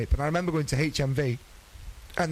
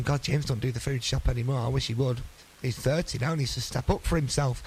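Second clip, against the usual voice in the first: slightly low imitation of mum; a hint of mock-grumbling mum, a touch low; mum as a man; 3 semitones lower than usual. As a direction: lightly put on a mannish mum voice. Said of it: "I don't know why I did that voice for her".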